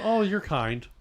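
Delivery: high, airy snob voice; pompous. Pretend. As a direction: put on a snooty, lofty tone. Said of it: "You just sound like a pompous asshole".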